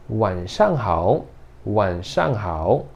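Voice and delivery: "Wan shang hao" said slowly, each syllable clear; slow Mandarin demo. Shown as a demonstration. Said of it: "E boa noite é".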